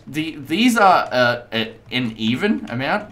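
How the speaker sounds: halting, stuck on the small words; robotic stutter. Real, not acted. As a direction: stumble like a cutting-out signal. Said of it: "I sounded like a robot".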